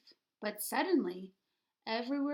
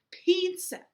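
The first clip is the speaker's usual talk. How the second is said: high loud squeal of a word; 7 semitones higher, 9 dB louder than usual. A narrator's reading. Gassy Jack squealing for the pizza, high and loud. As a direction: squeal it like an excited little dog. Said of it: "squealed Gassy Jack".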